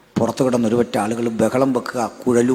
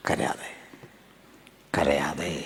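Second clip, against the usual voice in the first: whispered, gentle comfort; God hushing Moses, softly whispered; soothing whisper; 6 semitones lower, 7 dB quieter, slower than usual. Acted. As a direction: hush a weeping child.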